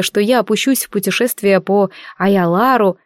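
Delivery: ordinary delivery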